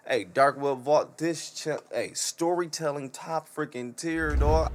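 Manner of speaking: loud, slow, hyped praise; excited shout-out. Real, not acted. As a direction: call it out like a hype man.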